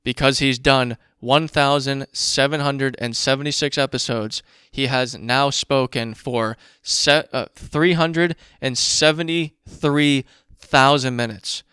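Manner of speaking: slow emphatic repeat. Shown as a demonstration. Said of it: "I'm gonna say that again".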